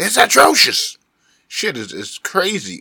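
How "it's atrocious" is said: very high, loud, rough, rasping sports pundit voice. Complaining about dating in the West: Stephen A voice. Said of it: "my best Stephen A voice".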